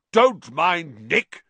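slow, loud call from the floor; shout. A narrator's reading. Headless head shouts up at the crowd, loud. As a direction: bellow it out across the hall. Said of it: "shouted Sir Patrick's head".

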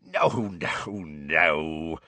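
amused, drawn-out denial; chuckling. A narrator's reading. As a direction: wave it away with amusement.

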